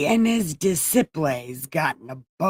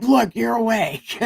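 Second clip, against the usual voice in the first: excited shout; 4 semitones higher than usual. Acted. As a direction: yell that he's finally up. Disciples shout at Jesus.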